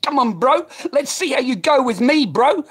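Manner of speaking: very high, full-volume yell; reenacted enraged shouting, pitch way up; retold fight challenge. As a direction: scream the dare at him. Retold climax of confrontation.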